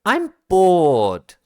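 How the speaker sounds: put-on high, loud whiny little boy; bored child. Young boy complaining to his brother, loud and high. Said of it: "Malik saying".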